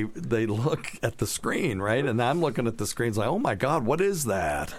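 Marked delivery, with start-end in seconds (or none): 3.3-4.7 retold shock, pitched up at the start; mildly hammed-up disbelief; mock astonishment. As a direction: replay an alarmed reaction. Acting out his reaction to screen.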